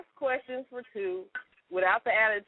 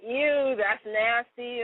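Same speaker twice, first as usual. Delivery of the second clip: mock disgust; much slower than usual. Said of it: "do the".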